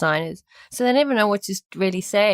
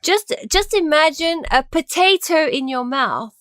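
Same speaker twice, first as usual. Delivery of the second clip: high, slow plummy English accent; English accent as if round a potato; exaggerated English accent; 8 semitones higher, 3 dB louder than usual. Shown as a demonstration. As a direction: stretch out a mock English accent, slowly. Coaching a put-on English accent.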